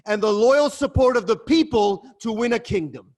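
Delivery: shouted rebuke; angry shout. Acted. King shouting down his brother-in-law in anger. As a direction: bellow it in scorn.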